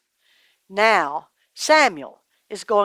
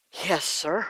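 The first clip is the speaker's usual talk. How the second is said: timid answer; 4 semitones lower, 9 dB quieter than usual. A narrator's reading. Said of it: "I can't hear you".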